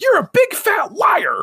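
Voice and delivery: mock screamed, shrill and very high. Retelling a fight where a woman screams at a man, imitating a scream. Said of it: "They're screaming at each other".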